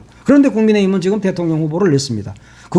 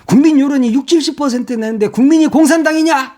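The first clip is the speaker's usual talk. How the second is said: mock indignant editorial; 6 semitones higher than usual. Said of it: "그런 말을 해요".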